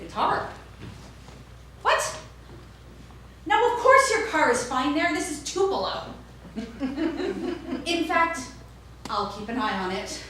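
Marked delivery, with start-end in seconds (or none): 1.8-10.2 very high, bright customer-service voice; chirpy shop clerk. Retold or imitated. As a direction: reassure them, all sugar. Clerk reassures customer about car.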